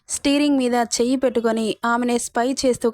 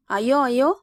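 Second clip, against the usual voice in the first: lightly exaggerated worried questioning; mock panic. Husband mimicking his wife's fuss, mock panic. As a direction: imitate her fussing, mildly flustered. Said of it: "తెగ కంగారు పడినట్లు".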